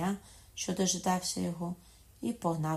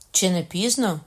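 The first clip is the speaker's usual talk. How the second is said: urgent question; 3 semitones higher, 10 dB louder than usual. A narrator's reading. Son calls question to mother.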